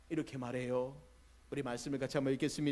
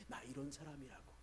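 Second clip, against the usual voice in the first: mock boast; 13 dB quieter than usual. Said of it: "자랑하고 싶은 마음".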